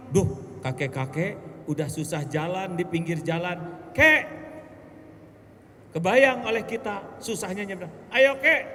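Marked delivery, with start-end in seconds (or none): 4.0-8.7 calling out. Acted. Calling to old man crossing.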